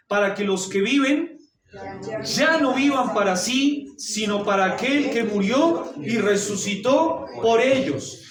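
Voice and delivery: lectura enfática del versículo, más fuerte y lenta; preaching at full force. Acted. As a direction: predica cada frase con peso. Preaching the verse. (el pastor predica el versículo a la congregación con fuerza)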